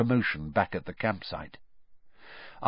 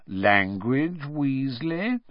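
mock reproof ending in a rise; taunting; 3 semitones higher, much slower than usual. A narrator's reading. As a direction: chide him tauntingly. Malfoy taunts Ron for swearing.

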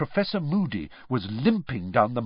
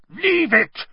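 high, loud shouted order; Moody; 5 dB louder than usual. A narrator's reading. Moody warns Crabbe off the ferret, shouted. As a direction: shout it as a sharp command. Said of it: "Moody shouted".

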